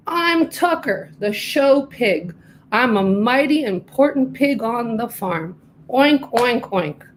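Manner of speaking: a show pig bragging about himself; boastful pig. Acted. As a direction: puff up like a prize pig.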